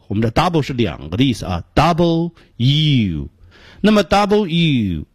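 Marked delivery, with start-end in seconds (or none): 1.7-3.3 "double U" as two separate words; careful, separated "double U"; original pronunciation. Shown as a demonstration. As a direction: draw out the U in "double U". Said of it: "它的原本念法是".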